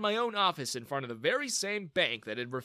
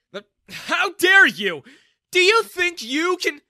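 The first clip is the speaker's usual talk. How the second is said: much louder, higher, slow furious outburst; outraged shout; 15 dB louder, slower than usual. Acted. Father enraged at the young man, shouting. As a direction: roar it in indignant rage.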